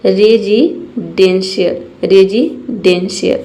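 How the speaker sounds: रेजिडेंशियल spelled out slowly, syllable by syllable; slow careful pronunciation. Shown as a demonstration. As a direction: say रेजिडेंशियल slowly as re-ji-den-shiyal. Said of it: "इसे हम पढ़ेंगे". (रेजिडेंशियल को धीरे-धीरे साफ़ बोलिए)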